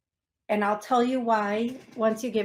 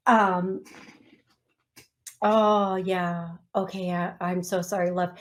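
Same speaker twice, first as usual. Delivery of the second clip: choked up; 3 semitones lower than usual. Real, not acted. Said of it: "take a breath and get my poop together".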